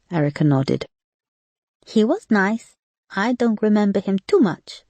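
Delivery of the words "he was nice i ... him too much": put-on high, light little boy's voice; child voice. A narrator's reading. Little nephew to his sad aunt, high child voice. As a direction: voice a small boy gently.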